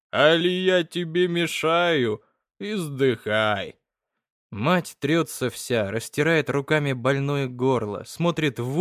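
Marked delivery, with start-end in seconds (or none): 0.1-3.8 slow, unbothered drawl with no anger; father sprawled on a bench answering his wife, lazy drawl; lazy and indifferent. Acted. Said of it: "отвечает лениво и без злобы".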